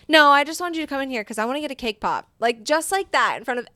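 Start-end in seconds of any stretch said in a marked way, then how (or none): 0.1-2.3 put-on chirpy kid voice. Daughter voiced explaining trick.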